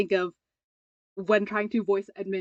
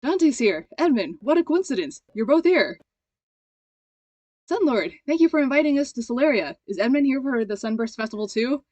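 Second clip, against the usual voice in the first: lightly voiced excitable visitor, higher and louder; perky, raised-voice character greeting; eager guest; 3 semitones higher, 5 dB louder than usual. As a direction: greet them with a touch of delighted surprise.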